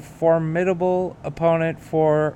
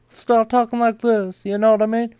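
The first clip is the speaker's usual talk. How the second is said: higher put-on impression voice; impersonation voice; 5 semitones higher than usual. Shown as a demonstration. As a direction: slip into the stock impression voice. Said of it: "I automatically go to this voice right here".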